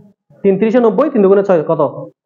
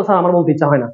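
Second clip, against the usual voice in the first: mock reluctant student; 5 semitones lower than usual. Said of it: "তুমি যদি বলো".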